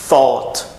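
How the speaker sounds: "thought" with unvoiced TH at the start; TH sound. Shown as a demonstration. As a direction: start "thought" with tongue between the teeth. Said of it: "E com som de T H".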